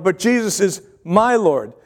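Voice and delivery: "my" stressed against "somebody else's"; "my" lifted, then "Lord" falls. Shown as a demonstration. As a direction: lean on "my" as your own claim. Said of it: "Not Jesus is somebody else's Lord".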